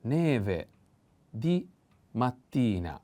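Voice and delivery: Neve and mattina each stressed on the second-to-last syllable, di lifted; teacher taps out the stress in Neve di mattina; word stress shown. Shown as a demonstration. Teacher shows students where the accent falls. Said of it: "The accent is here".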